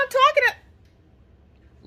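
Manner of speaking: high, drawn-out silly voice; slow high-pitched woozy babble; mock drugged babble. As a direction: act loopy, stretching the words up high. Acting out herself drugged and babbling.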